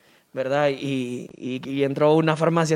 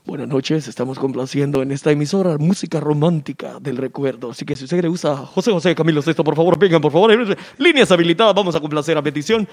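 lower, smooth radio announcer; radio host; 3 semitones lower than usual. Acted. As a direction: welcome the late-night listeners like a DJ. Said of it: "están locutores". (locutor de radio romántica, más grave)

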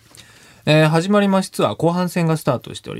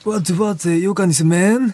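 higher Kagoshima dialect praise; 鹿児島弁; 5 semitones higher than usual. Shown as a demonstration. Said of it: "よかにせめんってなる". (鹿児島弁で)

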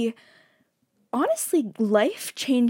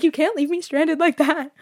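higher, louder mock complaint; boyfriend's put-on pleading to his girlfriend, higher and louder; whiny boyfriend; 7 semitones higher, 6 dB louder than usual. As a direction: play him hamming up being left alone. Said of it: "He's like".

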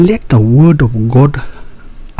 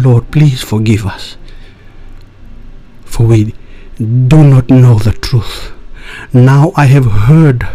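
prayer. Real, not acted. Leads listeners in prayer.

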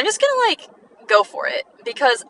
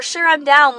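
upbeat reply, pitched up; enthusiastic agreement; 5 semitones higher than usual. Acted. Friend agreeing to hang out, enthusiastic. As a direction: agree as if with an exclamation point. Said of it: "with an explanation point".

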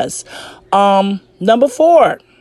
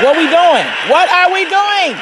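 exasperated confrontation; 8 semitones higher, 3 dB louder than usual. Retold or imitated. At a breaking point with a partner, loud exasperated demand. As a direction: throw the question at them, fed up.

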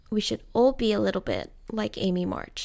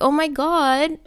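high, eager hammed-up swoon over Laurie; playful pretend flirting, pitched up; mock lovesick gushing; 7 semitones higher, 4 dB louder than usual. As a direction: gush at him like a smitten fan. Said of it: "I totally would have been like".

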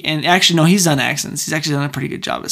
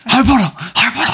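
high call; 7 semitones higher, 3 dB louder, much faster than usual. Acted. Voicing Harry Potter.

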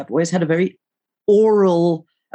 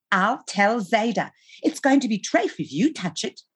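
put-on high-pitched kid threatening to tell; high, sing-song tattletale; tattling little brother; 6 semitones higher than usual. A narrator's reading. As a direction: pipe it up like a small boy telling tales.

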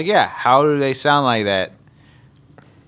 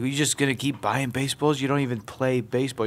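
softer mock New Yorker; New York accent; 5 dB quieter than usual. New Yorker teasing his friend about buying baseballs, New York accent. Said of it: "New York accents".

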